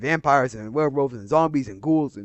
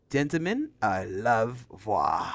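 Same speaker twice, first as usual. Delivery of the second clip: mock Major speech; 5 semitones lower, 3 dB quieter than usual. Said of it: "reciting the Major's speech".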